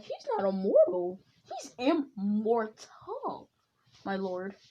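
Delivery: a light imitation of the polite angel attendant Whis; lightly voiced Whis, correcting his lord with courteous patience; a hint of Whis. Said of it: "Don't ask why I'm doing the Whis voice".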